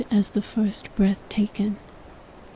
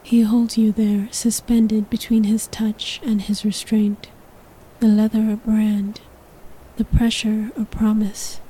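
whispered narration. A narrator's reading. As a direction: whisper the story close to the mic. Whispered throughout.

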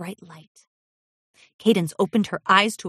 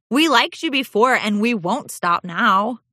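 reassuring filly; 4 semitones higher than usual. Acted. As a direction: reassure her friend. Fire Opal reassures.

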